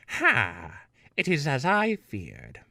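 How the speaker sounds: scoffing witchy princess; a hint of a gloating witch; Wicked Witch voice. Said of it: "make her sound like the Wicked Witch of the West".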